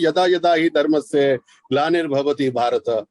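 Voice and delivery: slow Sanskrit shloka recitation; metrical verse recitation. Shown as a demonstration. Showing the group how a chhand goes, measured recitation. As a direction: recite it slowly, keeping the gaps of the meter. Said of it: "वो भी इसी तरह का छंद है".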